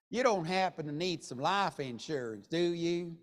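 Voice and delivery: lightly put-on Southern accent. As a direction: ask it politely with a Southern twang. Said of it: "that was my best Southern accent".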